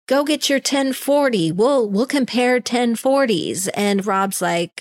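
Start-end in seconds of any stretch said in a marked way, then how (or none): 0.1-3.7 mock yell, pitched higher; half-acted yell, voice up high; retold yelling. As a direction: imitate an irate dinner guest shouting. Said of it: "this guy is yelling at Rob".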